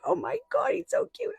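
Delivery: very high, melting squeal; gushing over cuteness. Retold or imitated. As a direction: coo it as if the cuteness is unbearable. Gushing over crying nephew.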